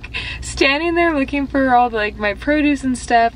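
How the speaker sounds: breathless after shopping; out of breath. Real, not acted. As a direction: talk while still catching breath. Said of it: "why am I out of breath".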